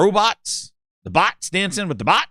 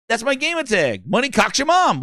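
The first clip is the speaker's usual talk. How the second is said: higher, lightly hammed-up gamer; insistent gamertag fan; 5 semitones higher than usual. Fan explains gamertag to baffled host.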